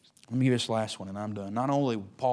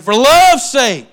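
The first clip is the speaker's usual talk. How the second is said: high, slow, loud wheedling plea; pleading old man; 10 semitones higher, 14 dB louder, much slower than usual. Pretend. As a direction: stretch it out like a pitiful begging. Paul's plea acted out.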